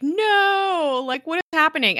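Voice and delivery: high, loud cry of disbelief; shocked disbelief. Retold or imitated. Host recalls being too surprised watching it, shocked disbelief. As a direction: re-enact a stunned viewer's protest. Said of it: "I was too surprised to feel anything".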